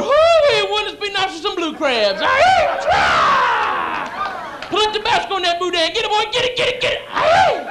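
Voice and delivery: whooping, high-pitched Cajun hollers; loud mock-Cajun excitement; excited Cajun. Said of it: "A Cajun homosexual?".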